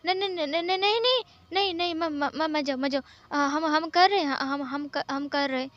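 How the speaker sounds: rapid-fire no-no-no, then tripping over words; hammed-up flustered backpedalling; panicked stammering. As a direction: blurt and stutter to stop him leaving. Wang stops him in a panic.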